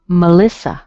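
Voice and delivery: "Melissa" as muh-LISS-uh, middle loud; Melissa with schwa. Shown as a demonstration. Teacher showing the E, schwa in "Melissa". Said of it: "but it's a schwa".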